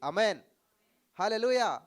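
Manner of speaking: loud, high call of amen and hallelujah; shouted hallelujah. Real, not acted. Preacher rousing the congregation with a loud hallelujah shout. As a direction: shout it out to the hall.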